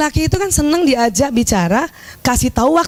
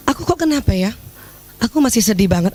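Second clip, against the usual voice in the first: soft sad plea; 5 semitones lower, faster than usual. Shown as a demonstration. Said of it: "kalimatnya gini".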